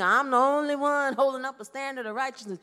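mock self-righteous complaint, building to a shout; hammed-up martyr voice rising to a yell; self-important martyr. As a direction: puff up as the only righteous one. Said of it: "don't let the enemy get you into this thing".

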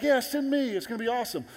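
high, excited cheer; hyped-up eagerness. Acted. Congregation fired up for next week, high excited cheer. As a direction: whoop it up like a keen volunteer.

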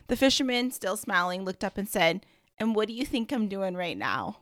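reading a parable aloud at an even storyteller pace; story reading. Acted. Podcast host reading a story to listeners, storyteller voice. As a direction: read it like a storyteller sharing a fable.

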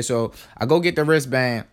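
ordinary delivery

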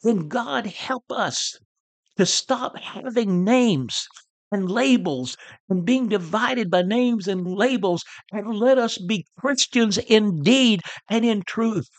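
a fervent high plea to the crowd; shouting to the crowd. Retold or imitated. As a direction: preach it out to the multitude. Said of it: "he shouts to the multitude".

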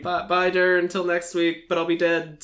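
high, strained farewell of a dying man; wounded soldier gasping. Pretend. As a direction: say goodbye with your last breath.

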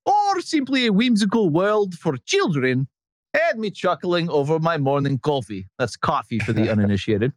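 lightly put-on Estonian accent, laughing through it; bad Estonian accent. Host reading an Estonian fan's email in a mock Estonian accent. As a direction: read the fan letter in a half-hearted Estonian accent. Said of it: "with my worst Estonian accent".

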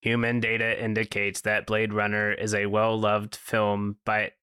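muffled under a robot mask; inside a rubber mask. Pretend. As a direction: talk through a stuffy mask. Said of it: "I can't breathe in the mask".

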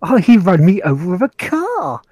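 mildly put-out English gamer; mock English accent. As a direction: do a lightly hammed-up English accent. Polite English gamer imitation.

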